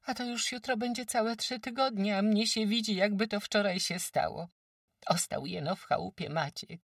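lamenting farmwife. Acted. Farmwife Kłębowa tells Agata of the arrests, lamenting. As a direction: wail out the village's misfortune.

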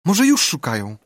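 high, hopeful and worried; a girl clutching at hope; anxious girl voice. Acted. Becky hopeful in dark cave.

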